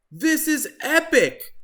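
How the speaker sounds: high, loud surfer holler. Acted. Turkey surfing, loud high holler. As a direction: whoop it out on the wave. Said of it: "he hollered".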